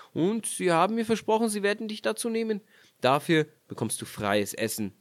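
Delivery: leicht gespielter belehrender Ehemann; Mann spricht. Acted. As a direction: ein Hauch von strengem Mann. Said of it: "sprach der Mann". (der Mann schickt sie in die Küche, leicht gespielt)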